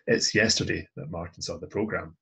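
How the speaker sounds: "yesterday" picked out early, the rest trailing lightly; stress on YESTERDAY. Shown as a demonstration. Teacher contrasting yesterday with another time, stressing "yesterday". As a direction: lean on "yesterday" as the time that matters. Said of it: "If we want to emphasize when it was".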